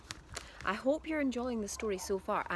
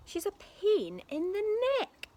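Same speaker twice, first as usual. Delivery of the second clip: grumpy dad; 11 semitones higher, 4 dB louder than usual. A narrator's reading. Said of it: "Mister Cranky said".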